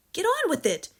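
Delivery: high, loud urgent push; mother urging her husband to catch burglars; urgent hiss. Acted. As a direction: shove him to go catch them. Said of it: "hissed the mother".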